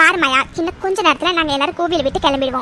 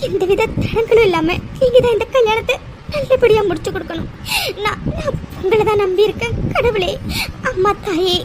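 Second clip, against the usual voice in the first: tearful prayer. Acted. Grandmother tearfully prays for wedding.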